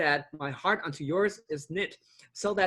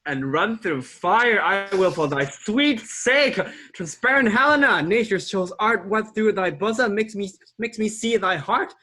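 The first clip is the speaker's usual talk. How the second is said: louder, impassioned declaration; passionate outburst; 5 dB louder than usual. Acted. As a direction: declare it with fervour. Lysander's enamoured outburst.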